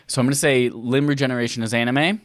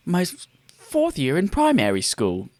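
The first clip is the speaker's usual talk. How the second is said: put-on 1 British accent; 5 semitones higher than usual. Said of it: "speak with a British accent".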